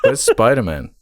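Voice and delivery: put-on high, baffled kid voice; confused teen fan. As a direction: play a puzzled young fan. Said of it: "they'd be like".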